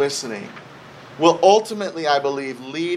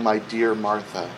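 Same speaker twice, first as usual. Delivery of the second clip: low, tender address; gently loving; 8 semitones lower, 4 dB quieter than usual. Retold or imitated. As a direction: soothe her, as if quoting Jesus softly. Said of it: "in a very loving way".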